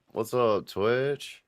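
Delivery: high shouted hello; loud greeting. Real, not acted. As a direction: call out to the chat. Streamer greeting platforms.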